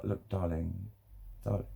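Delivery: soothing coo. Shown as a demonstration. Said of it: "like, soothing".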